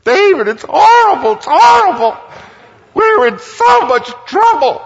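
very high, loud, wailing mock sob; imitated sobbing. Bob sobbing to David on the phone, in a hammed-up high wail. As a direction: wail it like a grown man crying on the phone. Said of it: "he is sobbing uncontrollably".

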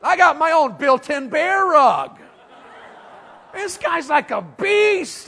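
hammed-up amused exclamation; laughing mock joke. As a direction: tease the girls, laughing. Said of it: "And I'm like".

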